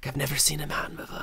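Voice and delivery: a hint of a naive tourist; awestruck tourist voice.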